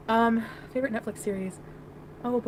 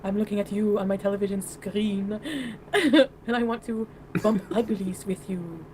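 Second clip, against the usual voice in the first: bad French accent; 3 semitones lower than usual. Streamer pretends to be a flirty caller, poor French accent. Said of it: "That's my French accent. Not very good".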